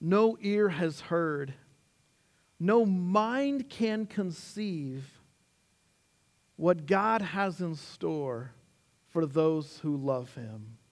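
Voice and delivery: slow, measured scripture reading. Acted. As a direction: let each line of the verse land. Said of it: "he says".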